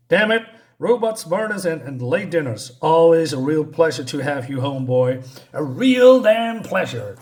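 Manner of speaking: a fed-up father snapping at his son; sarcastic angry dad. Retold or imitated. Angry father scolds son home late.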